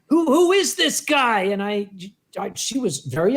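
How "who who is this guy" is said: frightened. Retold or imitated. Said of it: "she sounded terrified".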